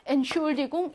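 엔슐디궁 stressed on 슐; light 엔, lean into 슐; stress after prefix. Shown as a demonstration. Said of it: "강세는 똑같이 간다".

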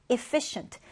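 efFIcient, second syllable of "efficient" stressed. Shown as a demonstration. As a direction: say "efficient" with the weight on -fi-. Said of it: "두 번째 음절의 강세를 두고".

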